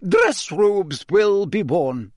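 high, clipped Scottish schoolmistress; a strict old teacher addressing the class; stern McGonagall. Acted. Teacher announcing the ball to the class, stern and high.

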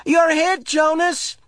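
high, loud playful yell. A narrator's reading. Asher yelling at Jonas from behind the tree. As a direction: shout it gleefully from cover. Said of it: "Asher yelled".

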